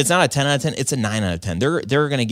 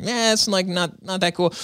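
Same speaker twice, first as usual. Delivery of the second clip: much higher, mocking team's shrug; mock dismissive; 9 semitones higher than usual. The speaker mimicking his team's dismissive snickering, pitched high. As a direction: sneer it off like unimpressed coworkers. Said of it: "them just being like".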